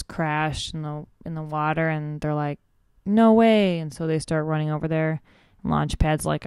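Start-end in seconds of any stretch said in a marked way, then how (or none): 3.1-3.8 a loud, high "No way!"; shocked shout. Retold or imitated. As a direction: yell it in disbelief. Kids see helicopter crash.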